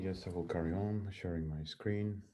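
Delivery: faint and far from the mic; barely audible, away from the microphone; very low voice. Real, not acted. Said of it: "We hear you with a very low voice".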